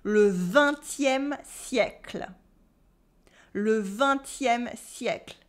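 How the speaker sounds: le vingtième siècle spoken slowly as a model; model pronunciation. Shown as a demonstration. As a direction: say it for the class to copy. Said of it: "repeat after me".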